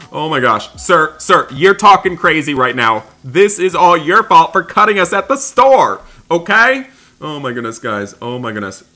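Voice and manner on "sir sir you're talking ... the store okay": loud, high, telling him off; angry scolding. Acted. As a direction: blame him loudly. Arguing with a man who cut in line.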